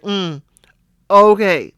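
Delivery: side-eye okay, unconvinced; skeptical okay. Retold or imitated. Ladies trading glances at her prenup stance, skeptical okay. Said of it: "looking at each other like".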